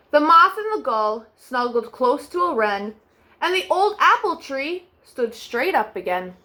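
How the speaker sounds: put-on gentle storybook narration for children; bedtime story reading. A narrator's reading. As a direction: read it like tucking kids in at night. Reads bedtime story aloud.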